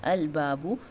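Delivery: slow "अल बाबू" with a distinct l and long aa; deliberate syllable-by-syllable "अल बाबू"; clear lam. Shown as a demonstration. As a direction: sound out "अल", then stretch "बाबू". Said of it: "लाम का sound clear आ रहा है".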